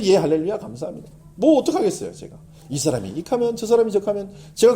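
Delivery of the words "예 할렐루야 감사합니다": cheerful reply. Retold or imitated. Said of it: "누가 뭐라 그래도".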